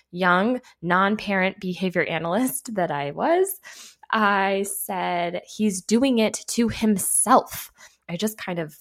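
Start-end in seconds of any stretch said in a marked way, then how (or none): 5.4-7.7 slow, drawn-out exasperated insistence; retold yell. Analyst defending herself to an upset mom, mild yell. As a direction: spell it out loudly but without shouting. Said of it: "yelled at this mom".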